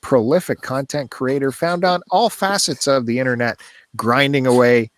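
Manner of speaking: mock-grand introduction with dry sarcasm; sarcastic praise. Real, not acted. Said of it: "sensing sarcasm".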